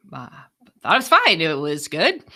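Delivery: whispered, deflated reply; deflated answer. Retold or imitated. Whispering a meek answer to her boss. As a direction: shrink back and whisper it. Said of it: "I'm like".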